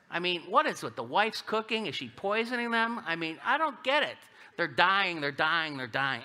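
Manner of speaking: high, incredulous comic rant; mock bafflement. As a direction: question it in exaggerated disbelief. Comic bafflement at dying husbands.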